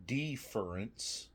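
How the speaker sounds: "deference" slowly, with a long DEE at the start; deliberate pronunciation. Shown as a demonstration. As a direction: draw out the first syllable of "deference" as DEE. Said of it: "It's deference with a D E, not a D I".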